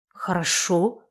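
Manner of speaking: soft, settled agreement; quiet, placating okay; calming down. A narrator's reading. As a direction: let the fight drop, quietly. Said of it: "тут же успокоился Олдридж".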